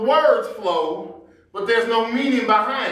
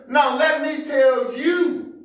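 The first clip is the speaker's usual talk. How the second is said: mock parent scolding; 4 semitones higher, slower than usual. Parent cutting off the kids, a mock stern scold. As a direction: lay down the law to the kids, hammed-up.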